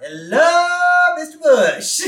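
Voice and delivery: high, drawn-out hollered greeting; loud calling out. Acted. Bart interrupts Bush typing memoirs, high hollered hello. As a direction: holler a pestering kid's hello.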